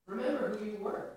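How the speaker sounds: high, ringing call to remember; emphatic reminder. Real, not acted. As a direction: lift REMEMBER up and out. Preacher urging the church to remember.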